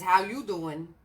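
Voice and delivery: put-on New York accent. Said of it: "My New York accent".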